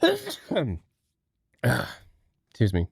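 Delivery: ordinary talk, nothing marked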